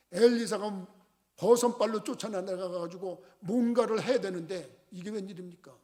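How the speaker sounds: ordinary talk, nothing marked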